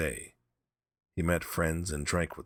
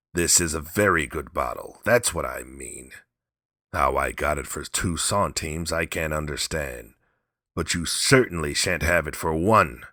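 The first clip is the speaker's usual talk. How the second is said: defiant; 4 dB louder than usual. Acted. Drunk old man refusing.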